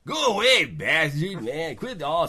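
shouting. Acted. Laura shouts at orc.

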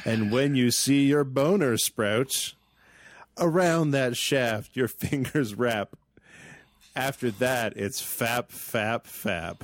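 measured, slow verse reading; poem recitation. Acted. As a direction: recite it like a poet.

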